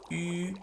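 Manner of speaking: Yu said with a small rounded mouth, the ü vowel; Chinese ü sound. Shown as a demonstration. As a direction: round the lips tight for Yu. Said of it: "small mouth, vowel, yu sound".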